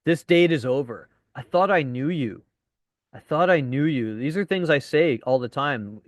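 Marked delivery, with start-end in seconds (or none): 0.0-4.2 mock-serious breakup in deadpan. Shown as a demonstration. Dating coach demos breakup lines for students, deadpan. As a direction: deliver the breakup line deadpan.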